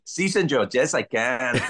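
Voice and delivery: hammed-up Spanish accent as a punchline; mock Spanish accent. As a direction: answer eagerly in a put-on Spanish accent. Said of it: "Can you do an English accent?".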